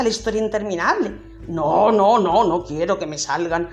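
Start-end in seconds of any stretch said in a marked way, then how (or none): 1.5-3.7 ogre fighting tenderness. Acted. Ogre struggling with softness.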